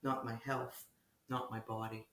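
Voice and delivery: measured prose reading with lifted openings and falling phrase ends; literary reading. Acted. Poet reads hospital piece to the interviewer, literary reading. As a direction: read it as a poet, pausing between phrases.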